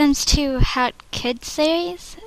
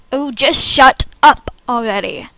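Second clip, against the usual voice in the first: louder, fed-up snap; annoyed outburst; 5 dB louder than usual. Acted. Audition takes, annoyed outburst.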